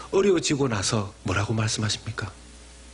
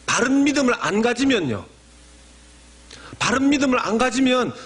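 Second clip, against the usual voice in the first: emphatic preaching; 9 semitones higher, 5 dB louder than usual. Acted.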